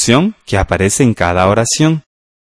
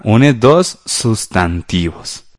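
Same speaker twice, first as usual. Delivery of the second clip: drawn-out words, gaps between them; slow dictation; much slower than usual. Shown as a demonstration. Teacher repeats the answer for pupils writing, slow dictation. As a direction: dictate it slowly, word by word.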